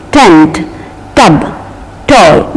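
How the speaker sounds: "tent, tub, toy" with aspirated T at the teeth ridge; tongue tip on the ridge for "tent, tub, toy"; correct English T. Shown as a demonstration. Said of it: "This is the correct pronunciation".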